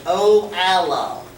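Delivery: slow, stretched-out southern twang. Shown as a demonstration. Teacher giving the class a hint at the phrase's origin, southern twang. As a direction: draw it out with a bit of southern twang. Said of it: "a bit of a southern twang".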